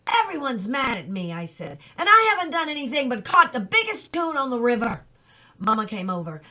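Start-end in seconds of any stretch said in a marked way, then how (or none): 0.1-5.1 louder, higher and fast, crying out; boy crying at his family, wailing louder; tearful wail. A narrator's reading. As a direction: blubber out the complaint. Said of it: "I really did get tuned up".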